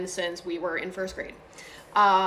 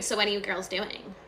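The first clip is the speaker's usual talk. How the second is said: imitated copycat; 3 dB quieter than usual. Daughter supposedly copying mom's question, light mimicking echo. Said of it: "copying everything she said".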